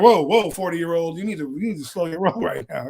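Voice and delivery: mock startled girl. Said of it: "They're like".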